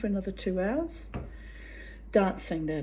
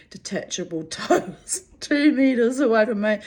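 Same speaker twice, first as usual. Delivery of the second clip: louder, higher countdown with a laugh; mock alarm; 4 semitones higher, 7 dB louder than usual. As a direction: sound the comic alarm as he closes in. Inner countdown as he gets closer.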